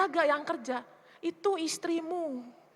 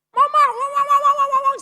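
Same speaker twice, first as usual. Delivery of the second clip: high, loud mock kid calling mama; a teen child calling again and again; pestering child; 10 semitones higher, 12 dB louder than usual. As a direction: nag like a teenager wanting attention. Teenage child pestering mother.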